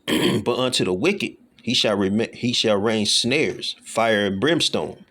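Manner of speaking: slow, deliberate verse reading; scripture reading. Acted. Preacher reads of fire and brimstone, slow and measured. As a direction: read each phrase slowly.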